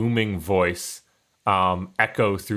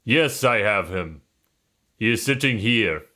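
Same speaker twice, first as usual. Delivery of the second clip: put-on Russian accent; 2 semitones higher than usual. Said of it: "this is gonna go Russian".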